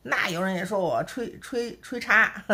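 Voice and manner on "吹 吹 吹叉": slow, reluctant drawn-out repeat; hesitant halting. Real, not acted. Repeating the critics' insult, slow and reluctant. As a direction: force out a word you hate to say. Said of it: "我说不出口哈".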